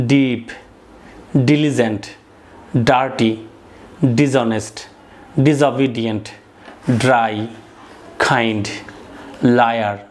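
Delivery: each English adjective said alone, slow and clear, with a falling end; careful word pronunciation. Shown as a demonstration. Teacher reading vocabulary list aloud to students, careful model pronunciation. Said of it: "শুদ্ধভাবে উচ্চারণ করছি".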